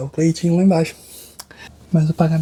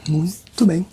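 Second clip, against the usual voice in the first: whisper. Acted. Chiropractor whispering while checking the patient's feet. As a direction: whisper as you look closely.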